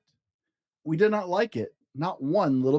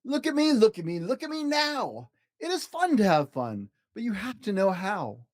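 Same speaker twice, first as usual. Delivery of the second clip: showing-off cat; 5 semitones higher than usual. Acted. Cat balancing on a ball, high gleeful boast. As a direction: call for attention like a show-off.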